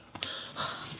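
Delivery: quiet relieved gasp. Retold or imitated. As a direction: catch your breath in relief. Reenacts relief as hand passes.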